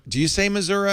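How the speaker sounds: Missouri as "mi-ZUR-uh"; pretentious-sounding Missouri. Shown as a demonstration. Host asking about local usage, Missouri ending in uh. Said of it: "feel a little pretentious when I say".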